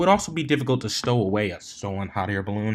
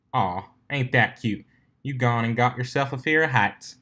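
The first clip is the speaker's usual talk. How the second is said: teasing quip; 3 semitones higher than usual. Acted. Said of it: "quipped her farming friend".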